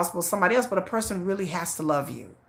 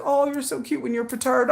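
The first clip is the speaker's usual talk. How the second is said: higher-pitched imitation of husband cooing; doting husband; 7 semitones higher than usual. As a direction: tease fondly to defuse the fussing. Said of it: "take the sting out of everything".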